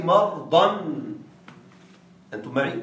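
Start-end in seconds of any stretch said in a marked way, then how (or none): 0.0-0.8 مرضا said as mardan with a final n; the mistaken مرضا, mardan; wrong tanwin. Shown as a demonstration. Teacher warning students against saying مرضا as mardan. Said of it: "لا تقل".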